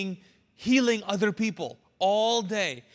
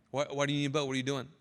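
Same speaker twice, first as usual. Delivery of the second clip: fisherman; 6 semitones lower, 5 dB quieter, much faster than usual. Retold or imitated. Fisherman questioning Jesus.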